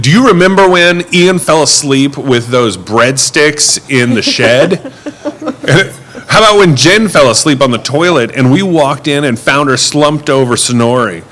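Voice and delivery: loud and giggly like a tipsy friend; half-shouted drunk reminiscing, laughing between stories. Retold or imitated. Driver imitates drunk passenger, loud and laughing. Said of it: "she's, like, laughing hysterically after each one".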